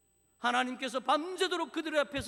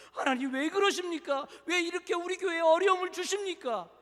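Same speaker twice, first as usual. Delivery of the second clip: raised, high, acted complaint; confrontational protest; 7 semitones higher, 7 dB louder than usual. Congregation questioning God over church hardship, heated protest. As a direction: burst out demanding why. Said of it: "우리는 그렇게 따진다".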